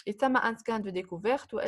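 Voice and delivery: choppy, breaking-up call audio; buffering stutter. Real, not acted. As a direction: voice cutting out on a bad line. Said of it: "ساعات صوتك يتقطع".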